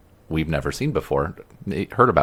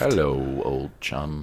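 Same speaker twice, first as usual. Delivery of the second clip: quiet character impression; 5 dB quieter, slower than usual. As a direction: slip into the character's voice. Quoting the show's character.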